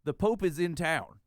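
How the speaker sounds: slow emphatic repeat; said aloud. Retold or imitated. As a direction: repeat it plainly and deliberately so he gets it. Repeats the secret out loud.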